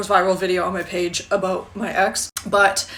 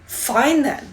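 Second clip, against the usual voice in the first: a bit of attitude; 4 semitones higher than usual. Retold or imitated. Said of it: "gives him a little bit of attitude".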